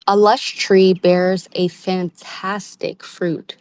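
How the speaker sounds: slow, savoring read. Shown as a demonstration. Tarot reader reads card text slowly. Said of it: "let me read that again".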